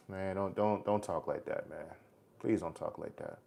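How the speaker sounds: low, soft, subdued pleading; hushed plea. Real, not acted. Streamer begging a despairing viewer not to talk like that, hushed plea. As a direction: gently beg them, keeping the voice down.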